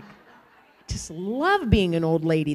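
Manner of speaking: slow, chuckling self-amused line; laughing. Real, not acted. Preacher joking to congregation, laughing slowly. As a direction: laugh through it at your own joke.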